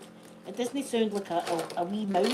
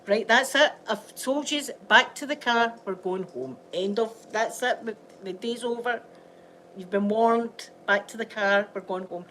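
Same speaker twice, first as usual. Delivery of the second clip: stern parent telling off; 4 dB louder than usual. Retold or imitated. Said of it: "I'd be like".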